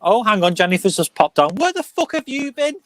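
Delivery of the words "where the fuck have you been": high-pitched, jokey demand; mock outraged greeting. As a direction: call them out in playful outrage. Mock scolding of late arrival.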